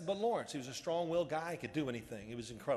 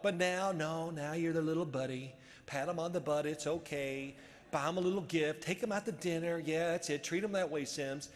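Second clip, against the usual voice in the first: mocking, sing-along list of favours; sarcastic coach. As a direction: needle him with fake encouragement. Coach mocks his chumminess.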